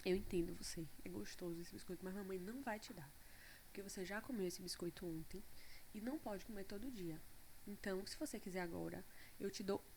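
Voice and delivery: soft, calm and quiet; soothing mother. Retold or imitated. Mother retelling how she calmly soothed her daughter. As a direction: gently explain the no. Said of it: "Eu falei".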